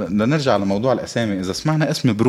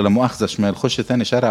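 Egyptian phrase. Retold or imitated. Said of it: "أو بالمصري بيقولوا".

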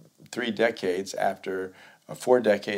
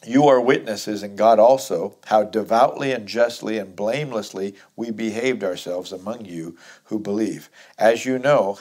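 firm, projected Bible reading; scripture reading; 5 dB louder than usual. Acted. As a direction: read the verse out to the congregation. Reads scripture aloud to congregation.

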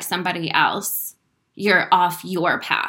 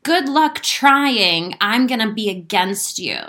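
mock discouraging God; 5 dB louder, slower than usual. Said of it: "God didn't show up and say".

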